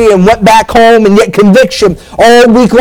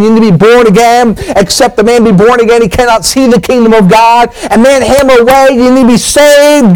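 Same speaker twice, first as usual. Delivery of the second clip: building fervent slave preacher's call, rising higher; preaching hellfire; 3 semitones higher than usual. Retold or imitated. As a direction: hammer the message home like a revival preacher. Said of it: "he preached hellfire and brimstone".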